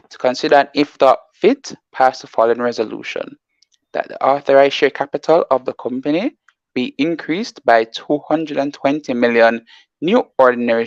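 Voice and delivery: careful, measured read of a resolution. Real, not acted. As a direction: read it out slowly for listeners to follow. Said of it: "read back the thing again more slowly".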